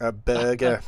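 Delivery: trying out a Liverpool accent on burger; a clumsy stab at Scouse; American doing Scouse; attempted Scouse accent. Shown as a demonstration. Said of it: "I gotta get that accent going".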